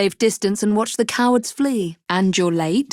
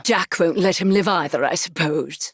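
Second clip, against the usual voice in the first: whisper; 3 semitones lower than usual. Acted. Aside under breath.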